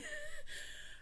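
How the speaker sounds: a high, breaking laugh of relief; laughing cry. A narrator's reading. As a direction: let the relief crack into a laugh.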